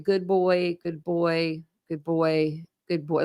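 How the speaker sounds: put-on Good boy repeated softly, fading a little each time; self-comforting repetition. Shown as a demonstration. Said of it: "like, a comforting thing?".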